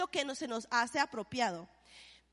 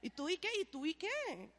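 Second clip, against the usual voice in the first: defiant comeback; 9 dB quieter than usual. Retold or imitated. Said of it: "alguien te hace una cara fea y tú".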